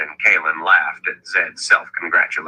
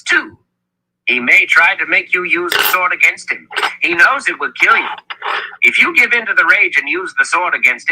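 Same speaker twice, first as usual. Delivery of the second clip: high, insistent elder's voice; Zed's urgent explanation; 9 semitones higher than usual. A narrator's reading. Zed explaining the sword's magic to Richard, urgent insistence. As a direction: drive the warning home in a high pitch.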